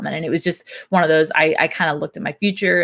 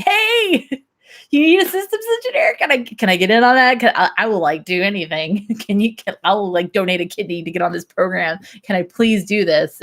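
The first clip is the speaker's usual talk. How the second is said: eager begging; 3 semitones higher than usual. Retold or imitated. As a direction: beg to join, bubbling over. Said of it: "it was just constantly like".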